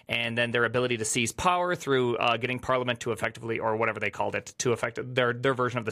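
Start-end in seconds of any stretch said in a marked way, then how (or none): 2.6-3.0 put-on Parliament in a German accent. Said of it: "Parliament in a German accent".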